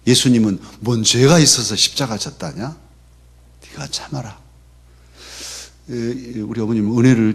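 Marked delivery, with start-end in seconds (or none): 0.1-4.4 fuller Jeolla dialect, 죄가 stressed, question rising at the end; mother's Jeolla dialect. Retold or imitated. Mother urging her son to endure, firmer in Jeolla dialect. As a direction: repeat the Jeolla saying more firmly. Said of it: "전라도 사투리로".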